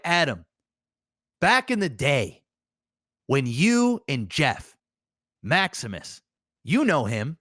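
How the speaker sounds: a mild take on a chummy interviewer; a hint of a Canadian interviewer drawing out each detail; Nardwuar impression. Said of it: "And that's how he talks".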